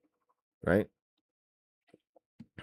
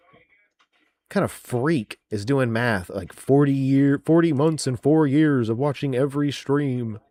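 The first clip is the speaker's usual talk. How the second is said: higher, slow mock-nerdy "forty months and four years"; mocking nerd voice; 3 semitones higher, slower than usual. Parodying the commenter who counted forty months, mock-nerdy. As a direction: lampoon the weird math in a silly voice.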